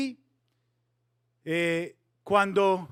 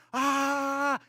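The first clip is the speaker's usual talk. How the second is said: acted crowd shout; 7 semitones higher than usual. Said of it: "las trompetas y el sonido".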